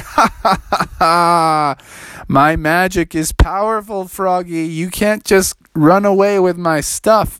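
the wizard mocking the thief; gloating wizard. Wizard laughs at Froggy.

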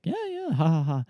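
high, put-on fake laughing yeah; imitating mom brushing it off with a laugh; mock fake laugh. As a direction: play the mom's dismissive fake laugh. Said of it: "She was like".

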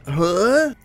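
high, hammed-up puzzled huh; mock surprised "Huh?"; dramatic huh. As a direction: feign surprise with a big pause. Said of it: "I will dramatically pause there".

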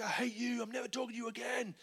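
high childish voice imitating a younger self; kid brother tantrum. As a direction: play a sulky kid yelling at his brothers. Retold childhood fight with brothers.

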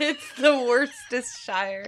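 Worcestershire as wors-tis-shire, slowly, through a laugh; botched pronunciation. Shown as a demonstration. Friend echoes her own botched Worcestershire, slow and laughing. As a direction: drag out Worcestershire with a slushy middle. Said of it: "randomly saying different ways of saying".

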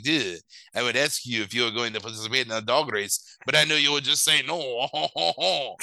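lightly voiced taunting rival; Jean-Georges. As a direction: poke fun, drawing out the final words. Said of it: "making fun of him".

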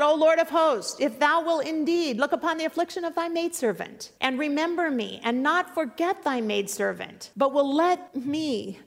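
high, fervent prayer of a desperate woman. Acted. Hannah praying for a son at the temple, high and fervent. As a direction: cry out to God, begging for a son. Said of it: "And she said".

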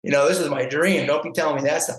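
mock-indignant protest at a careless nurse; retold anger. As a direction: replay the outburst, a touch exasperated. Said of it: "I got, like, mad".

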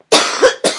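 harsh dry coughing; rough real cough; coughing fit. Real, not acted. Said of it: "I'm sorry I'm coughing a lot".

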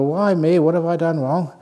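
a mild acted plaint; mock self-pity. Person being shouted at wonders why, mildly plaintive.

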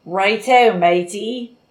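attempted Aussie accent; Australian accent. Shown as a demonstration. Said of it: "Say one other Australian thing".

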